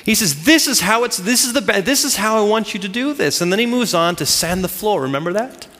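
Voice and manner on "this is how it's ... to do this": insistent mock instructor, pitched slightly up; imitating a demanding teacher; hard on him. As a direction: lay down the method firmly. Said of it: "he's hard on him".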